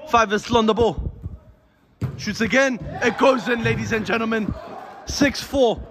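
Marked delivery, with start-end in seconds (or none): 2.2-5.8 excited goal call. Acted. Commentator calls a goal.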